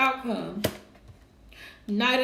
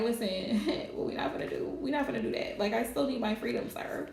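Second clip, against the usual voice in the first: lightly acted, hushed pushback; soft mock warning; 6 dB quieter than usual. Gemini telling a controlling partner off, in a mock-quiet warning. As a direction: set a boundary under your breath, half-laughing.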